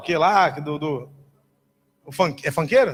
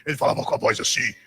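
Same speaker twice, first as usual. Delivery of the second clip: low, rough worn-out voice; imitated lost voice; 9 semitones lower than usual. Preacher shows how the prophet spoke after praying for hundreds, hoarse imitation. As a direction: imitate someone who has prayed his voice away. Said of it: "ele já tava sem voz".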